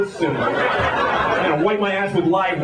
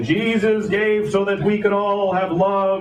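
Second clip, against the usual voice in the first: lightly voiced street preacher; 2 semitones higher, slower than usual. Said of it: "homeless priests with a Bible saying".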